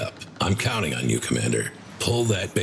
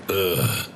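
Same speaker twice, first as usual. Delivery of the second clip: exasperated groan. Acted. Weary complaint about the Council.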